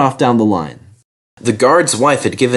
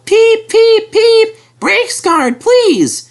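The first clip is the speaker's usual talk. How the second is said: much higher, louder whistle call; 5 dB louder, much slower than usual. A narrator's reading. Driver calls for brakes, loud. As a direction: sing out the whistle.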